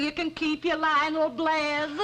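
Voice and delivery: slow words through giggles; giggling as she talks; laughing. Real, not acted. Giggling over a dance memory.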